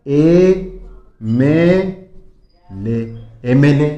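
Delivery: ए, मे, ले split apart, then एमएलए joined; spelling out letters. Shown as a demonstration. Teacher sounding out MLA letter by letter. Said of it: "अब इसको क्या बोलोगे आप".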